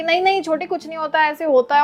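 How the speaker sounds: mother scolding. Retold or imitated. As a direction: lightly imitate mom telling off over the phone. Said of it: "मेरी mummy मुझे phone पे डांट रही है". (फोन पर डांटती माँ की हल्की नकल)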